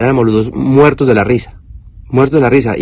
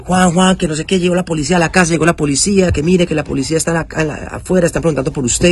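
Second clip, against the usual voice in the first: daughter's voice; 7 semitones higher than usual. Retold or imitated. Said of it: "mi hija Luna".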